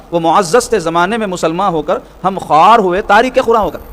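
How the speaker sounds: slow, measured verse delivery; declaimed Urdu couplet; poetry recitation. Acted. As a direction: recite the couplet line by line, unhurried.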